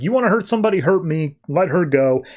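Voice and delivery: mock angry challenge, starting high; lightly acted angry dare; retold anger. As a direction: play the hero's defiant demand, not shouted. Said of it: "Superman gets pissed".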